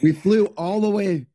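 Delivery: a light New York crook begging to get in; New York mobster. Pretend. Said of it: "accent from New York City".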